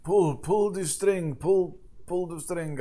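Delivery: put-on lightly French-accented craftsman. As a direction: coax in a mock French voice. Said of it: "sacre bleu".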